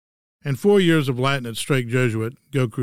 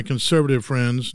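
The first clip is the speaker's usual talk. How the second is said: air quotes. Shown as a demonstration. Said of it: "note the air quotes".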